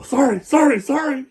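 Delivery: high, loud sing-song sorry, sorry; mock apology. Mocking the driver who caused the dent, high sorry. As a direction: brush it off with a quick mock sorry. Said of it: "you hear the dude go".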